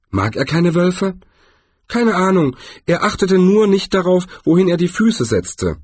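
hohe Trollstimme; Troll. Acted. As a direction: ein Troll erzählt gelassen. (hohe, gelassene Trollstimme)

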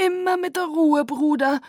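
calm him down with a smile; gentle warning. Acted. Aro gently admonishes Caius, high and loud. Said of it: "mahnte Aro".

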